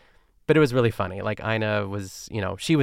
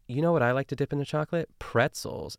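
lightly voiced Ina, quick and chirpy; a quick cheerful pitch for pretzels; mock Ina, upbeat and fast; quoting Ina brightly; 4 semitones higher than usual. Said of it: "She says".

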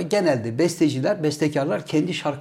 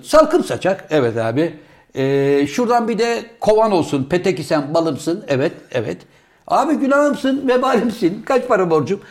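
building mock recital. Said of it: "Oraya gidiyor şiir".

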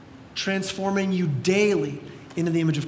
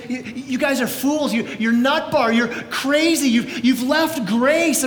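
exasperated scolding; 3 semitones higher than usual. Acted. Paul scolding the Galatians, acted.

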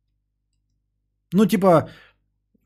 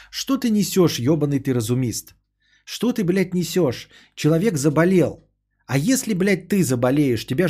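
indignant rant; 3 semitones higher than usual. Real, not acted. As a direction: snap back in disbelief. Ranting at chat commenter.

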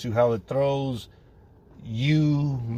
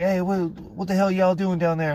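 calling down, high and distant; yelling through vent; 7 semitones higher than usual. Retold or imitated. Neighbor upstairs yelling down the vent, puzzled. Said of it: "he hears us all yelling".

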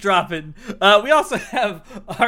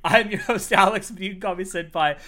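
podcast host intro; faster than usual. Acted. Host introducing the anime podcast, announcer style. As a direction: show opener, announcer-ish. Host's formal show intro.

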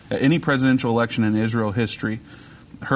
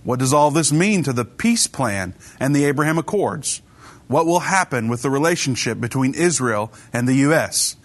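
crisp broadcast teaser read; announcer read; 3 semitones higher than usual. Acted. Host teasing today's show on Israel, announcer read. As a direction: introduce the topic like a radio announcer. Reads the show's opening teaser.

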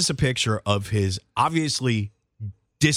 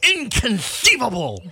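drawn-out, slow Inconceivable with a high lisp; Princess Bride quote; 11 semitones higher, slower than usual. Shown as a demonstration. Friends showing how to toast the stout, slow movie-quote voice. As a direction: stretch out Inconceivable like the film. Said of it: "you gotta go".

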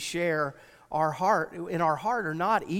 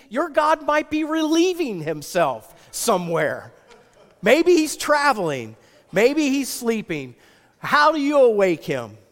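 mocking taunt; 3 semitones higher, 4 dB louder than usual. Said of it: "He starts trash talking".

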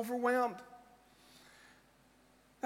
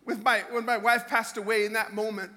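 choking up; 3 semitones lower than usual. Real, not acted. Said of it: "I thought I was gonna lose it here".

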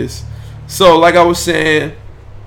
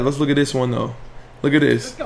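usual speaking voice

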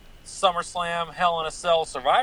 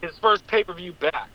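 breaking up on a bad phone line; choppy, cutting-out call audio; clipped phone line; 3 semitones lower, 10 dB louder than usual. Real, not acted. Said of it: "you are breaking up just a little bit".

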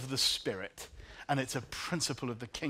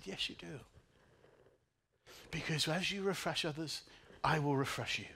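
gentle reassurance; 2 semitones higher, 4 dB quieter than usual. Retold or imitated. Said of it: "the Holy Spirit said".

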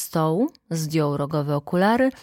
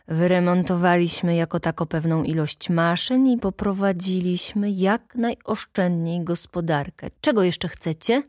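boorishly; 2 semitones higher, 3 dB louder than usual. Acted. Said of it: "zapytał gburowato".

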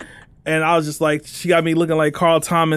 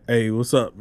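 lower, answering like a stud faking a deep voice; a girlfriend answering the phone in a forced lower voice; put-on deep voice; 4 semitones lower, slower than usual. Girlfriend picking up the call in a put-on deep voice. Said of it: "make their voice deep".

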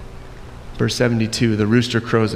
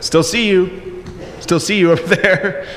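higher, drawn-out playful call with a laugh; mock "caught you" in a raised voice; teasing servant girl; 6 semitones higher than usual. Servant girl spots Peter still lurking, playful teasing call.

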